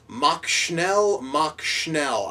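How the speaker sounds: lightly put-on German accent. Reviewer quoting Hitler's one line, in a light German accent. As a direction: give it a hint of a German accent. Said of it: "I just put more accent into saying it there".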